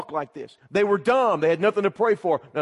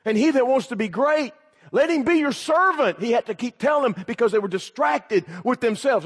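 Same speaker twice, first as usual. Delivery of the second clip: raised-pitch, driving sermon delivery; impassioned preaching; 7 semitones higher, 4 dB louder than usual. Real, not acted. Preacher to young people on disciples' self-focus, impassioned.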